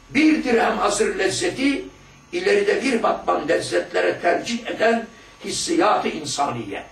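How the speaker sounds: slow, measured recitation of the book; solemn text reading. Acted. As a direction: read it like a sacred text, drawn out.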